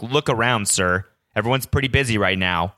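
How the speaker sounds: lightly voiced patronizing employee saying "Look around, sir."; a hint of talking down, as if "busy" were obvious; obviously condescending. Employee telling the customer to look around, mildly condescending. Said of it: "she said it like it was, like, an obvious".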